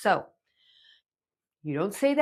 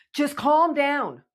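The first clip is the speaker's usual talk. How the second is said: dismissive calm down; 5 semitones higher, slower than usual. Retold or imitated. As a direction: say it like a parent shutting them down. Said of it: "the word I'm about to say".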